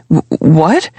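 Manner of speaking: a mild flustered stammer on what. Acted. Jude caught off guard by Aaron, stammering lightly. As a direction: trip over the first sound, caught off guard. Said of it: "I stammer out".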